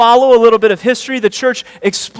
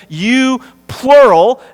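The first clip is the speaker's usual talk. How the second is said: slow, loud "you plural" with weight on "you"; stress on you plural; 3 semitones higher, 5 dB louder, much slower than usual. Shown as a demonstration. Preacher stressing to his church that "you" is plural. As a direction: lean hard on "you plural". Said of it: "it's emphatic".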